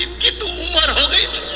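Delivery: high-pitched mock wife, airy and dismissive; wife's offhand remark. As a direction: toss it off in a high put-on wife's voice. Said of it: "इतने में सेठानी बोली".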